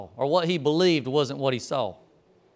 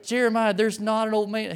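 exasperated; 6 semitones higher than usual. Retold or imitated. Exasperated insistence to coworker.

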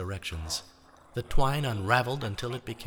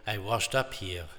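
character voice. Acted. Character voice in read story.

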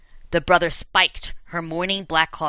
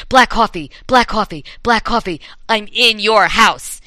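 louder ghost voice; 3 semitones higher, 5 dB louder than usual. Acted. Ghost voice getting closer.

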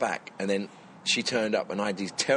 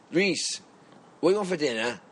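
imitated dad calling through the house, pitched up; 5 semitones higher than usual. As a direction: play a dad shouting a dinner question. Acting out dad asking about dinner.

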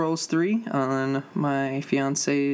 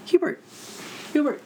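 calling out; 13 semitones higher than usual. Real, not acted. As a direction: shout the cat's name to fetch him. Calling the cat loudly.

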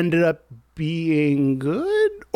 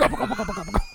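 gobbling turkey voice; 7 semitones higher, 5 dB quieter than usual. Acted. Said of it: "rate my turkey performance".

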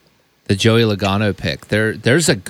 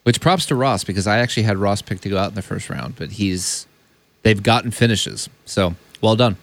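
crunching chips. Real, not acted. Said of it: "Sorry, I'm eating chips over here".

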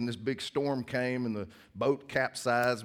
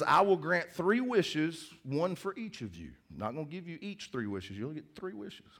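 genie voice; 5 semitones higher than usual. Acted. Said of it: "he says".

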